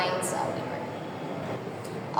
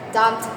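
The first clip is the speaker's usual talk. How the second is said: "dumpty" with a heavy DUM and a light ty; stress on first syllable. Shown as a demonstration. Teacher sounding out a trochee for the class, stress on the start of "dumpty". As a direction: beat out "dumpty", landing on DUM. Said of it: "stressed syllable followed by an unstressed syllable".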